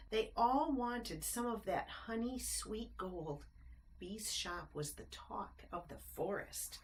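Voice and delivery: lilting rhymed storybook narration; bouncy read-aloud rhyme; reading to children. A narrator's reading. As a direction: read it like a bedtime picture book. Reads rhyming picture book aloud.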